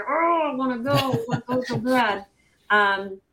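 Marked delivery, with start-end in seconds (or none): 0.1-2.3 eager. Retold or imitated. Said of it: "I'm like".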